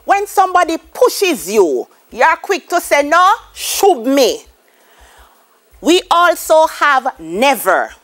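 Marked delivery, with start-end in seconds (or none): 3.0-4.5 "shove" said "shub", with a B for the V; a slow Creole "No, shove me" with "shove" ending in B. Shown as a demonstration. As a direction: bite the V into a B in "shove". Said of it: "So shove".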